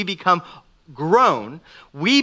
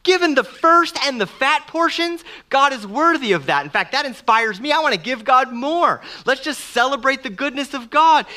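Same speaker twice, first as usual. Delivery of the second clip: joyful celebration; 5 semitones higher than usual. Pretend. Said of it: "Cain should be like".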